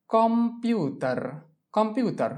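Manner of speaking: slow model pronunciation. Shown as a demonstration. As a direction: stretch কম্পিウটার slowly so students copy. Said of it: "teacher models pronunciation".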